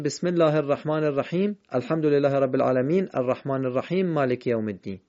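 bare endings on الرحیم and العالمین, hurried into the next verse; verses run together unvowelled. Shown as a demonstration. Teacher showing the mistake, vowelless الرحیم and العالمین in a quick run. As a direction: rattle on, dropping the vowels after الرحیم and العالمین. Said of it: "نباید بگیم".

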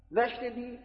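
high, disbelieving you didn't hear; incredulous question. Retold or imitated. Dreamer asks the listener beside him, incredulous high question. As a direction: pitch it up in disbelief. Doubting the one who heard nothing.

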